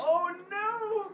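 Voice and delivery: high, drawn-out wail; comic dismay. Real, not acted. Player sees disaster in game, high wail of dismay. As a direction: wail it as things go wrong.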